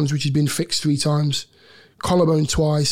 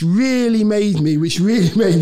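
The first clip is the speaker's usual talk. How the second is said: laughing; 2 semitones higher, 4 dB louder than usual. Real, not acted. Laughing while describing running.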